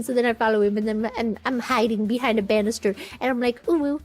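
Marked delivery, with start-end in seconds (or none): 3.7-4.0 lightly put-on cutesy voice, a bit high; a hint of naive little human; mock-innocent cooing. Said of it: "being a cute, innocent little, little human".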